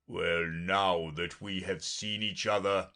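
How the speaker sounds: lightly voiced, slow unicorn; measured, drawn-out unicorn speech; unicorn character. Unicorn offering Alice a bargain, slow and measured.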